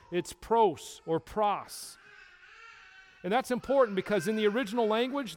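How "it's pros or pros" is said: pros said slowly both ways, first with an oh, then with an ah; slow careful Greek word pros; slow pronunciation demo. Shown as a demonstration. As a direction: spell out pros carefully, two vowels.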